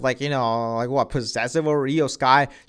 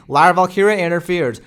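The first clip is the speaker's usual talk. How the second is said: normal talking voice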